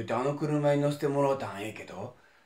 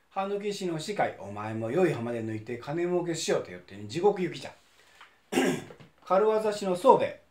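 stern king of hell. Acted. Enma judging the dead.

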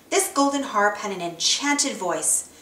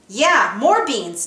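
grumpy retort; 4 dB louder, slower than usual. Acted. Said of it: "Donald answered angrily".

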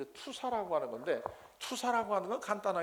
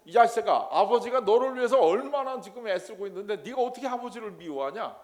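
loud, higher scolding of a son; louder scolding parent; scolding father; 3 semitones higher, 6 dB louder than usual. Retold or imitated. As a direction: tell off an ungrateful son, loudly. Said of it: "이러고 야단을 맞는단 말이에요".

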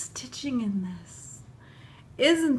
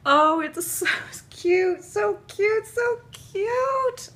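real delighted, swelling coo; overcome gushing; 8 semitones higher, 4 dB louder, slower than usual. Real, not acted. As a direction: pitch climbing higher with each repeat. Gushing tearfully over tiny booties.

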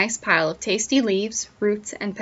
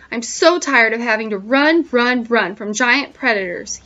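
seething. Acted. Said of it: "he seethed".

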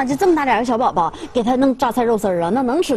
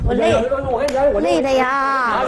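long drawn-out tired complaint; put-on exhaustion; slower than usual. Complaining while holding the baby, put-on exhaustion. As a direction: drag the words out, feigning weariness.

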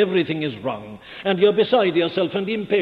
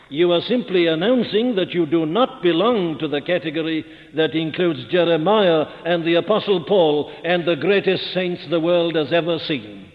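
ordinary delivery

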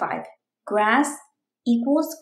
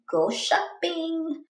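eager announcement; 7 semitones higher, 3 dB quieter, slower than usual. Acted. Announcing next mission.

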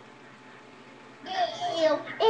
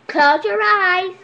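tag magician's command; 2 semitones higher, 4 dB louder, slower than usual. Pretend. Magician instructing the audience.

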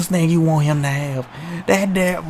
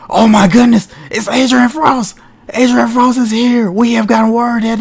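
louder, higher hype call; excited shout; 3 semitones higher, 6 dB louder than usual. Real, not acted. Commentator hyping a surprise run-in, loud and excited. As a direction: yell it like a surprise entrance.

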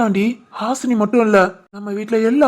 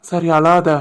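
gentle comfort; 4 semitones lower, much slower than usual. Acted. Husband comforts crying wife.

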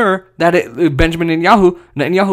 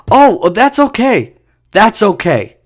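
sarcastic acceptance; 4 semitones higher, slower than usual. Retold or imitated. Sarcastic excuse for bombings.

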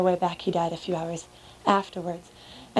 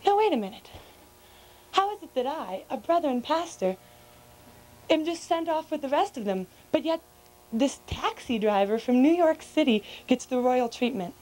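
higher, aggrieved pastor's complaint; indignant protest; 5 semitones higher than usual. Acted. Pastor protests to Saint Peter in an indignant raised voice. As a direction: demand fairness in a raised, wounded voice.

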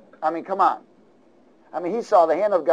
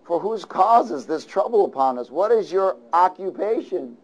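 higher, pleading sailors' voices; sailors pleading; 5 semitones higher than usual. Acted. Preacher voicing sailors pleading with Jonah. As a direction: act out the frightened sailors begging Jonah. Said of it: "And they said to him".

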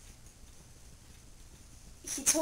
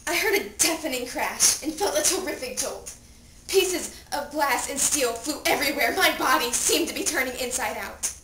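louder, urgent narration; dramatic crash account; 5 dB louder than usual. Acted. Dead teen recalling the crash, intense and louder. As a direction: relive the impact with force.

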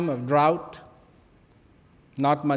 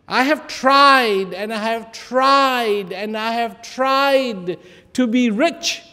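weeping; 5 semitones higher, 4 dB louder than usual. A narrator's reading. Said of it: "somebody weeping".

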